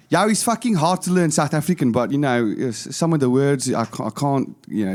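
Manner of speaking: tentative attempt at a South African accent. Shown as a demonstration. Podcaster attempting the accent he is learning, South African accent. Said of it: "a South African".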